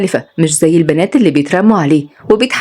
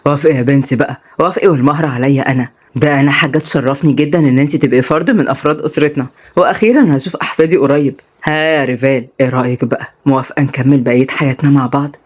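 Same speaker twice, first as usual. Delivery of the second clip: lower, cheerful father; lightly voiced, lower and pleased; father urges the girl to accept, lower cheerful; jolly father; 4 semitones lower than usual.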